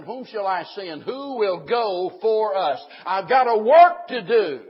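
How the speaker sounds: loud, high proclamation, building in force; forceful preaching. Real, not acted. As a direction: call it out to the congregation.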